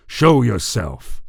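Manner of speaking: slow, imperious yell; calling out. A narrator's reading. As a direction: shout for a hidden foe to appear. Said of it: "Ashton called out".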